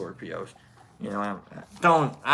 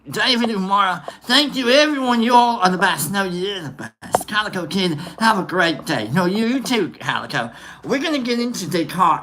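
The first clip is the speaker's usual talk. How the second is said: lively, hammed-up English-Australian accent; put-on English accent. Streamer thanking viewers in chat, in a mock English accent. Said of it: "get into my shitty little English accent".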